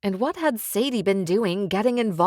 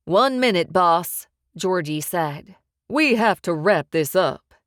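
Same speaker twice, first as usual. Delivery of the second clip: louder, urgent heavy's warning; gruff henchman; 5 dB louder than usual. Acted. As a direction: hurry the boss along.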